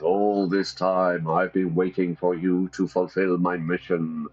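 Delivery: lightly voiced booming ancestor ghost; a hint of a solemn spirit speaking from the tomb; ghost grandfather. Ghost Gregor greets his descendants, lightly solemn.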